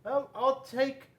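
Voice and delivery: a small critter keen on the pink donut; childlike penguin voice, slow and bright; high eager penguin. Acted.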